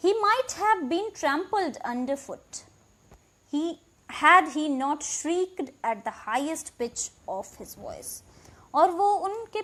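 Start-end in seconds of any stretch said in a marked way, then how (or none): 0.1-8.2 slow, deliberate reading of the English text; slow story reading. A narrator's reading. Teacher reading the English passage aloud, slow and clear. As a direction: read each word out clearly for the class.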